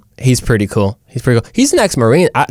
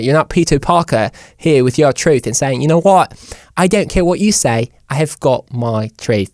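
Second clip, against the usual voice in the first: mock British accent. Host mimicking someone who insists on their truth, mock British accent. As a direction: parody a haughty British speaker. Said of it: "in a British accent".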